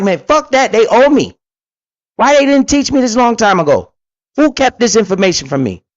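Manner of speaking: high-pitched indignant protest; pissed off. Retold or imitated. Man retelling his answer to others, pissed and indignant. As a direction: replay the outrage, pitch riding high. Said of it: "then instantly I just got pissed".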